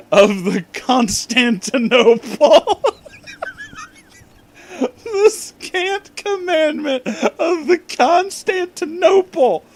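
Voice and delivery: breaking into high laughter; can't keep it together reading this; giggling fit mid-line; laughing through it. Real, not acted. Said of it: "Holy shit".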